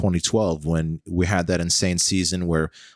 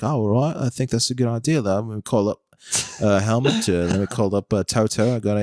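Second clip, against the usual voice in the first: a hint of a British pundit mulling it over; casual mock-British impression; 3 semitones higher than usual. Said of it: "Martin's like".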